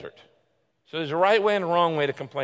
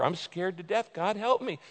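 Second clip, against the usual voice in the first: frightened plea climbing higher to a cry of help; fearful lament; 6 semitones higher than usual. Shown as a demonstration. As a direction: beg God like you're scared to death. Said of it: "You can lament out of fear".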